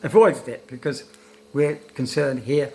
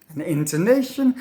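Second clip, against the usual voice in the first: INTONATION lifted higher with a clear tune; demonstrated intonation; 4 semitones higher, 3 dB louder than usual. Shown as a demonstration. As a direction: show the melody inside INTONATION. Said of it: "Listen to my pronunciation of intonation".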